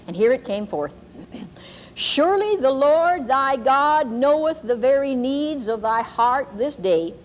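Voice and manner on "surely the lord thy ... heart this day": slow, solemn King James cadence; prophetic reading. Shown as a demonstration. Preacher reads the prophecy to the congregation, slow and solemn. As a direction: intone it like a prophecy given in church. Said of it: "I'm going to read to you".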